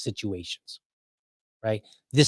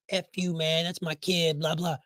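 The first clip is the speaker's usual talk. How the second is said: higher, softer protest of a distraught dad; mock distraught; 4 semitones higher, 5 dB quieter than usual. Dad held back by firefighters, mock distraught. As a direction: plead angrily in pretend distress, without shouting. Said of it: "I'm emotionally distraught".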